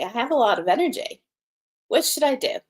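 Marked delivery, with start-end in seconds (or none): 1.9-2.6 higher, eager bright question; energized. Pretend. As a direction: ask it full of energy. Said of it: "I'm feeling very energized".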